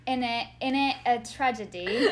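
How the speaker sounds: hammed-up British slang; British accent. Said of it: "I have to be British".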